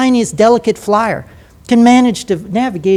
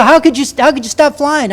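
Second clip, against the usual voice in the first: incredulous question; 7 semitones higher, 3 dB louder than usual. Retold or imitated. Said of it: "And people go".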